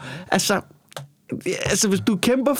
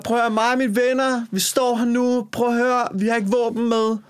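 raised, earnest speech to the lords; mock revolutionary leader; 6 semitones higher than usual. Rebel calling out to the nobility, pitched up. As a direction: play the rebel demanding power. Acting revolutionary addressing the nobles.

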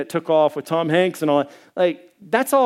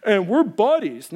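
higher, breezy mock visitor voice; 4 semitones higher than usual. Mocking the cult visitor bragging about tea, higher and breezy. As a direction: parody the chummy visitor. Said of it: "this is what they say".

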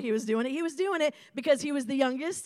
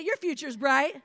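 louder, with conviction; say it like you mean it; 7 dB louder than usual. Shown as a demonstration. Pastor leads the crowd, say it like you mean it. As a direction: declare it to the neighbor, full of belief. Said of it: "now say it like you mean it".

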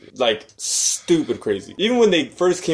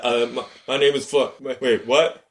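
imitating a halting, stumbling reader; confused, stammering mock read; mock stutter. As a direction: trip over the words as if lost in the script. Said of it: "How do you stutter through that?".

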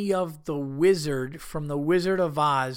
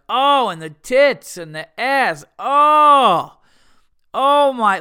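hammed-up lecherous guy, slow and loud; leering guy; 8 semitones higher, 12 dB louder, slower than usual. A husband gawking at women, hammed-up leer. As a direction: ogle out loud like a creepy married man. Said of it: "you're not gonna be like".

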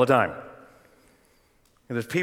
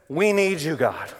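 desperate plea; 2 semitones higher, slower than usual. Shown as a demonstration. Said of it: "Show desperate need".

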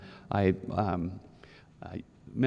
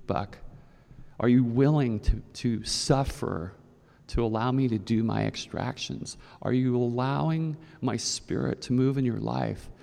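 God's voice. Retold or imitated. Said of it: "God revealed to me".

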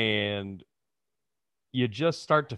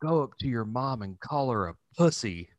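conspiratorial aside; 6 dB quieter than usual. Retold or imitated. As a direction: say it softly as a sly secret. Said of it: "pull me to the side and be like".

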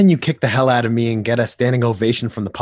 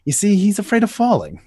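mocking; 10 semitones higher, 4 dB louder than usual. Joker's joke punch.

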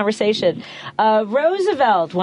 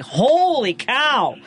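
shocked; 5 semitones higher, much slower than usual. Retold or imitated. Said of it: "And I was like".

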